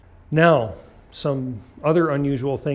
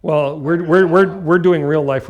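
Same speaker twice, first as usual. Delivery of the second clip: emphatic; 4 semitones higher, 10 dB louder, slower than usual. Real, not acted. Correcting student insistently.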